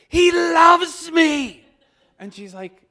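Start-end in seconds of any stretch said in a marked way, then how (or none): 0.1-1.6 slow, high, loud cry of joy; overwhelmed joyful shout; elated shout. Retold or imitated. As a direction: stretch each word out in rapture. Retelling his outburst to Donna.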